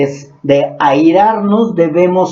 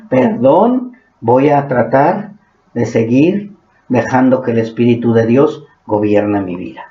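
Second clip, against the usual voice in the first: humble apology; 5 semitones lower than usual. Retold or imitated. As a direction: apologize gently, head bowed. Acted humble apology, soft low. (disculpa humilde en voz suave y baja)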